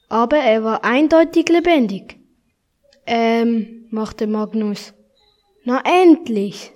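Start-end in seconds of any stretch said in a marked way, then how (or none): 5.6-6.7 slow relieved sigh, louder. Acted. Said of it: "seufzte der Knabe".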